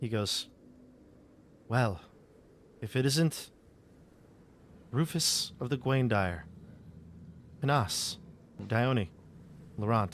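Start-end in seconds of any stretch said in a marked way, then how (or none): 1.7-10.1 subdued, low-toned, understated. Game master voices Erwin greeting the arriving party at the inn, in low tones. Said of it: "He says it in low tones".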